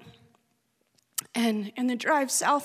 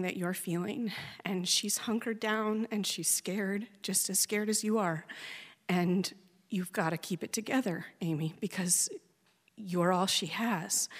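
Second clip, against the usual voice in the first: reassuring midwife; 4 dB quieter than usual. Retold or imitated. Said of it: "and she says".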